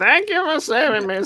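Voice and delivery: very high, slow, drawn-out lady voice. Quoting the bird watcher lady who calls Spider-Man: bird watcher lady voice. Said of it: "there it is again".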